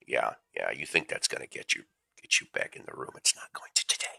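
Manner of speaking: softly teasing the cat under his breath; hushed aside. Real, not acted. Talking to the cat at his feet, hushed and teasing. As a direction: murmur to the pet, dropping to a whisper.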